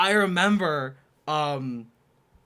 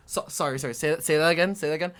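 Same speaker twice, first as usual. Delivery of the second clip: disbelief; 2 semitones higher, 5 dB louder, faster than usual. Retold or imitated. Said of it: "They're like".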